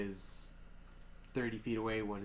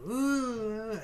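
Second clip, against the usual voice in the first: crowd ooh; 11 semitones higher, 5 dB louder than usual. Acted. Crowd reacting in arena.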